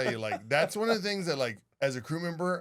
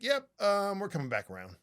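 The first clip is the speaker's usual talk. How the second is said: matter-of-fact captain; 4 semitones higher than usual. Retold or imitated. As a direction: imitate a captain reporting it as routine. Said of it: "Matter of fact".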